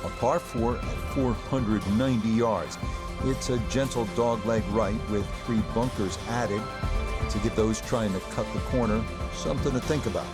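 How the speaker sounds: calm TV golf commentary; golf commentator. Acted. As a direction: call the hole like a broadcaster.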